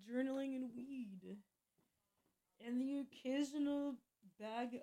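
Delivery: sheepish muttered confession; hushed aside. Real, not acted. Confiding drug use as aside.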